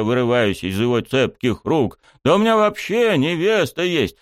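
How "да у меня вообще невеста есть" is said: high, protesting cry; indignant yell. A narrator's reading. Student fending off coach, indignant yell. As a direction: protest at a raised pitch. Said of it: "не менее возмущённо завопил я".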